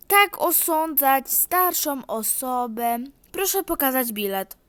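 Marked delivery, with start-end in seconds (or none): 0.1-3.0 hammed-up offended granny; offended old lady. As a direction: play the wronged elder.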